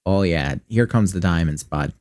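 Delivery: folksy Midwestern buddy talk; exaggerated Midwestern accent. Gamer cheering loot drops in a Midwestern accent. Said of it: "exaggerated Midwestern accent".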